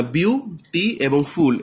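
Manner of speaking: slow বিউটি এবং ফুল, with বিউ, টি and ফুল set apart; teacher slowly picking বিউটি এবং ফুল apart; split into syllables. Shown as a demonstration. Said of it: "এই তিনটে পদাংশ রয়েছে".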